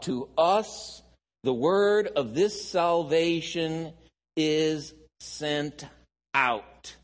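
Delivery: measured, emphatic Bible reading; scripture reading. Acted. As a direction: read the verse out slowly and deliberately. Reads scripture aloud.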